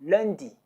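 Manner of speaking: lundi, clear French nasal u, falling; model French word. Shown as a demonstration. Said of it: "Monday is".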